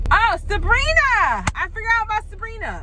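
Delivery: it just came back to you; sudden remembering, high-pitched. Real, not acted.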